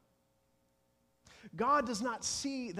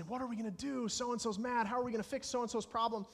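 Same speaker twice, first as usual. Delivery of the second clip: higher-pitched, mildly frantic fretting; flustered worry; 5 semitones higher, faster than usual. Acted. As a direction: act out people fretting in a fluster. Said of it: "they run around".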